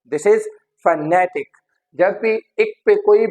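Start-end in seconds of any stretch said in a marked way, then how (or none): 0.9-1.5 "phonetic" said as fuh-NE-tic; stress on second syllable. Shown as a demonstration. Teacher repeating the model for learners, stressed on NE. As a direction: lean on the NE in "phonetic". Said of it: "the stress is on ne".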